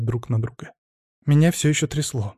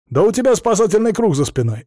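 high, louder angry yell; 7 semitones higher, 4 dB louder than usual. Acted. Husband yelling back at his frightened wife, exasperated. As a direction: bellow it at your wife. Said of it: "заорал Вениамин".

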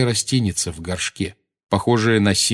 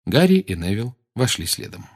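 plain reading voice

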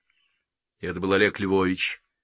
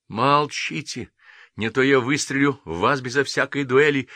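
hiss; 6 semitones higher, 4 dB louder than usual. A narrator's reading. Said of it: "прошипел Никитину поручик".

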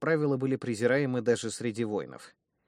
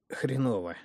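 mild groaning; 3 semitones higher than usual. Acted. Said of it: "простонал в ответ Чак".

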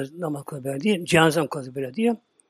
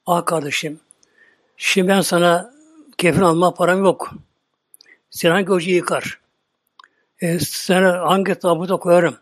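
mild mock weeping lament. Preacher voicing the grieving brother over his body, mock lament. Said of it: "o zaman şöyle ağlıyor".

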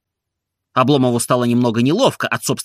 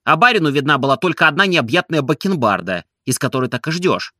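ordinary delivery, nothing marked

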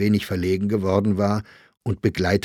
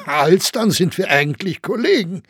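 higher, louder laughing tease; 10 semitones higher, 5 dB louder than usual. A narrator's reading. Grossinger laughs, calling Saxberger a colleague. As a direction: laugh through it mockingly.

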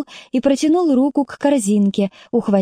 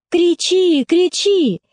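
scornful, higher "кричи, кричи"; contemptuous dare; 7 semitones higher, much slower than usual. A narrator's reading. Kostya daring Katya to scream, scornful. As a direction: taunt her to go ahead and scream. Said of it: "предложил презрительно Костя".

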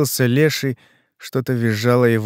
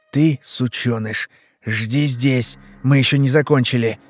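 hoarse rasp. Acted. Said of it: "прохрипела".

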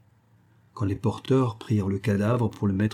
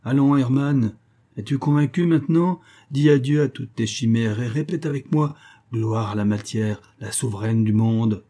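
ringing voice. Acted. The professor shakes Hermann, speaking in a ringing voice. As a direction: proclaim it like a fanatic. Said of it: "Pâleur parlait d'une voix éclatante".

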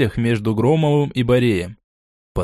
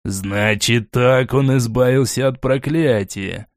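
slow down and ponder it; thoughtful; slower than usual. Acted. Borey realising how the khan escaped, slow musing. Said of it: "задумчиво произнёс Борей".

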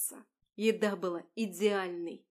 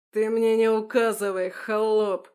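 loud furious roar; 10 dB louder than usual. A narrator's reading. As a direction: bellow it with contempt. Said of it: "взревел чиновник". (громкий яростный рёв)

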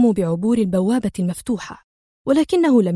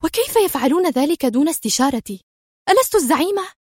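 higher, climbing indignant questions; offended boss demanding respect; angry; 6 semitones higher than usual. Acted. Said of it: "ثم أردفت في غضب".

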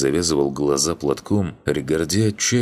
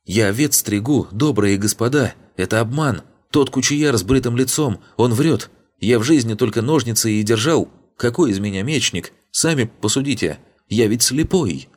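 high, tearful pleading of a fake coward; whining fake plea; 7 semitones higher than usual. A narrator's reading. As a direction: grovel and whine through fake tears. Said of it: "Слёзы появились на удивление легко". (жалобно, притворно плача, высоким голосом)

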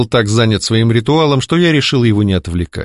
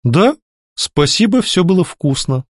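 sweet smile; 7 semitones higher than usual. Acted. Heroine sweetly thanking her captor for lunch, smiling. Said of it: "мило улыбнулась я".

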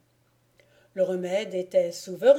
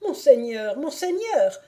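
higher, rising on the repeat; excited cry; 6 semitones higher, 4 dB louder than usual. A narrator's reading. Bailiff calling the lord as his wife revives, excited cry. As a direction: call out with mounting excitement. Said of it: "s'écria le bailli".

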